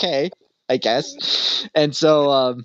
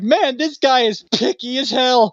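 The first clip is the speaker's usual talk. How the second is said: mock exasperation; 9 semitones higher than usual. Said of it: "And I was just like".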